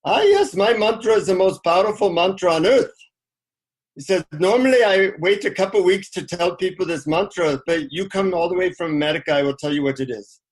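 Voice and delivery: lightly put-on Indian accent, opening on a high exclaimed "Ah"; a hint of an Indian guru's accent, mock solemn; Indian accent impression. Guru grandly answering the American visitor, in a light mock Indian accent. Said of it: "a deep Indian accent".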